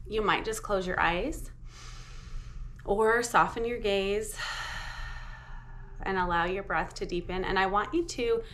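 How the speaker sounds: measured meditation guidance with long pauses; guided meditation. Real, not acted. Teacher leading listeners through a short mindfulness practice, unhurried meditation voice. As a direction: guide them inward, leaving space after each phrase.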